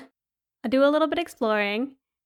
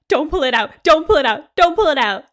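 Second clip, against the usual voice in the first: desperate pleading; 3 semitones higher, 5 dB louder, faster than usual. Retold or imitated. Begging sister not to pull.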